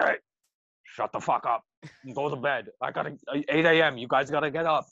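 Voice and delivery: lightly mocked drunk nagging; imitated drunk host. Drunk host shushing giggling guests, mildly imitated. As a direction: mimic a drunk host repeating orders. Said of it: "His voice is just insane".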